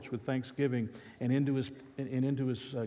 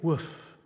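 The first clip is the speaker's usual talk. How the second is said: mock dog bark; 3 semitones higher than usual. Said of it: "barked the dog".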